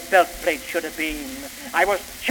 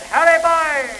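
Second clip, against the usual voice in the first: shouted; 9 semitones higher than usual. Acted. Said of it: "we shouted".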